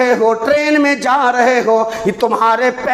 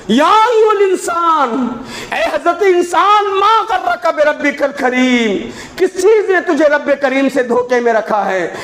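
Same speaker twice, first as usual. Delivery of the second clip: laughing recitation; 3 semitones higher than usual. Real, not acted. Preacher teases the crowd with a laughing appeal. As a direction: chuckle through the appeal.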